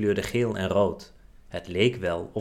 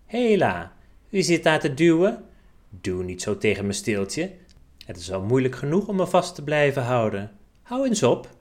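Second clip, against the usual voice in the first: higher, louder indignant little leaf; mildly hammed-up storybook outrage; indignant protest; 4 semitones higher, 4 dB louder than usual. A narrator's reading. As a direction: object crossly to being pushed, voice jumping up. Leaf protests at being pushed.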